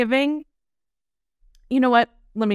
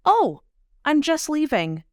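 breezy excuse; 6 semitones higher than usual. Retold or imitated.

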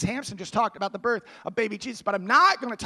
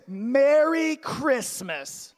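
a loud holiday greeting, "Christmas" drawn out slowly; festive shout; 5 semitones higher, 3 dB louder, much slower than usual. Real, not acted. Pastor greeting the children at chapel with a slow, loud holiday shout.

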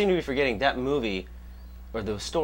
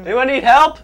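high, loud hero calling out; heroic call; 12 semitones higher, 11 dB louder than usual. Pretend. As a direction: announce yourself like a superhero. Playing bored superhero calling out.

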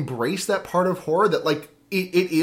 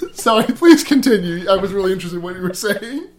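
kind gentle laugh; 4 semitones higher, 7 dB louder than usual. Real, not acted. Apologizes while still laughing.

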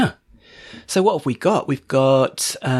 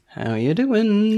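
cheerful greeting; 8 semitones higher, slower than usual. Acted. Greeting listeners.

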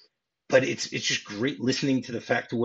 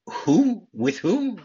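higher-pitched mock disbelief; incredulous retold delivery; 8 semitones higher, 4 dB louder, much slower than usual. Retelling Sally's reply to Harry's marriage news, incredulous. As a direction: imitate her astonished questioning. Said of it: "has an amazing delivery by saying".

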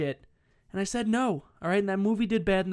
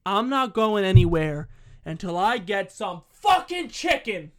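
louder retold demand for chicken; retold yell; 4 dB louder than usual. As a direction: push it out like a man on a mission. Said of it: "This guy yells".

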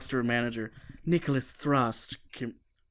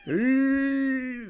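excited hey; 12 semitones higher, 5 dB louder than usual. Real, not acted. Echoing the other speaker's exclamation.

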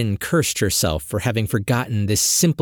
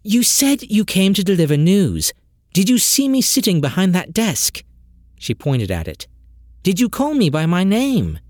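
higher, impatient questioning; frustrated; 7 semitones higher than usual. Acted. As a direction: press him, fed up. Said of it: "frustrated to have to repeat herself".

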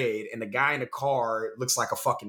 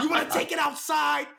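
mock challenge; 13 semitones higher than usual. Imitating angry bagel shop guy.

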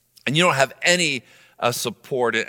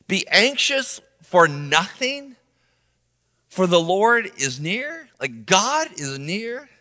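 slow, higher, doubting repeat; mocking echo; 4 semitones higher, slower than usual. Skeptic repeating Paul's line back at him, slow mocking disbelief. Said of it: "interrupt Paul and say".

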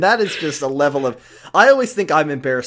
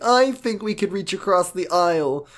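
reasonable centrist; 5 semitones higher than usual. Retold or imitated. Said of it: "Josh tries to be Mister Centrist".

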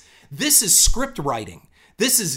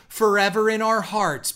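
higher, hammed-up tribute; emphatic fake-heartfelt post, pitched up; mock all-caps gushing; 4 semitones higher, 4 dB louder than usual. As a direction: proclaim it with sarcastic devotion. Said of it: "in all caps, like she's twelve years old".

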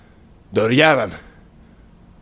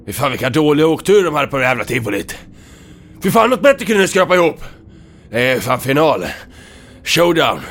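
taunting; 6 semitones higher, 5 dB louder than usual. Acted. Hero taunting, psyching himself up.

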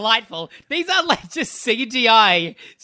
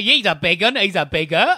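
put-on ridiculous British accent. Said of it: "I was trying to be a ridiculous".

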